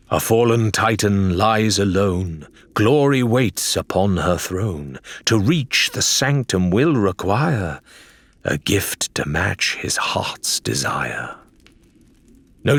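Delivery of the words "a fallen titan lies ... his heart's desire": slow, measured rhyme fading to a whisper; read riddle verse. A narrator's reading. Adelaide reads the riddle aloud to the group, slow and solemn. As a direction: intone the riddle like an old inscription.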